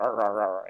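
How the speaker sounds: low, quick mock barks; spoken-out dog barks; imitated dog barking. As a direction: imitate dogs barking at each other. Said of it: "They start barking at each other".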